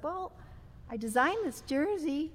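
meek little voice. Retold or imitated. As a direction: shyly own up in a little voice, drawn out. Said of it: "you know, in this little voice".

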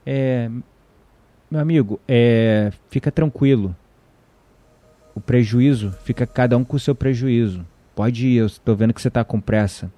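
low, calm and unhurried; retelling his own calm answer to an angry driver, low and easy; calm reply. Retold or imitated. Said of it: "Eu falei".

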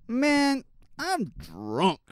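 hammed-up drunk man quote; drunk driver. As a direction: play the drunk driver for laughs. Rereads headline, acting the drunk driver.

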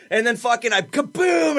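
hyped-up retelling; excited shout. Retold or imitated. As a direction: punch the kaboom like an explosion. Narrating the climax excitedly.

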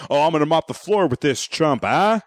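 lightly cocky, cute boast; playful trash talk. Retold or imitated. Boxer teasing his opponent at a press conference, mildly cocky. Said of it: "He's trying to be cute at first".

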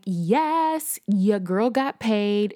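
gleeful drawn-out yes; pleased, playful self-congratulation; mild celebration. Retold or imitated. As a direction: celebrate payday with a little swagger. Celebrating the pay deposit.

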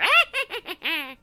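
high, loud wheezing cackle; Crypt Keeper cackle. Shown as a demonstration. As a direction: cackle like a cadaverous horror host. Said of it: "More Crypt Keeper".

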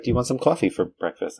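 imitating a New York mother; lightly mocked New York accent on coffee; mom's New York accent. Mom offering breakfast coffee, imitated New York accent. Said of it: "do it right when you imitate the accent".

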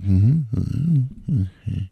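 mock smug humming in an odd voice; dismissive mm-hmm. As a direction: imitate them brushing it off. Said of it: "And they're like".

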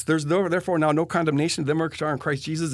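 mildly mocking reading. Reading Romans to his friend in mild mockery. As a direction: read the verse with a sneer, understated. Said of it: "I start reading it in a mocking voice".

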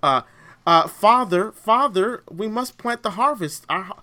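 a hint of stagey Shakespearean actor; mock Shakespearean villager. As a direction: parody a pious alien villager from a TV show. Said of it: "they speak like Shakespearean actors".

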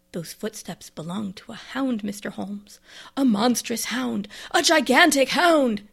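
slow, starts hushed, ends in a big shout. Acted. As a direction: build from a hushed dread to a cry. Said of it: "said in a muffled voice".

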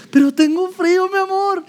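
wife complains to husband she's cold, high whine; whiny freezing wife. Pretend. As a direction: whimper to him that you're cold. Wife whining about cold.

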